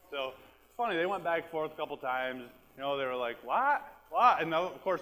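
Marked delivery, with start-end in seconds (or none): 3.4-4.4 mock yell. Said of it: "is yelling".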